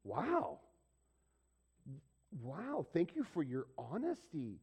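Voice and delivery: a retold "wow" of mild astonishment; shocked. Store clerk thanking an honest customer, shocked. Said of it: "He was shocked".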